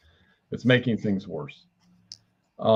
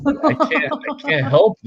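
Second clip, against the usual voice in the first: laughing apology; 6 dB louder than usual. Real, not acted.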